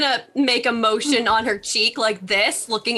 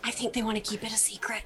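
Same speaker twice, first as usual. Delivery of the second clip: hushed; 10 dB quieter, faster than usual. Acted. Confiding a secret in character.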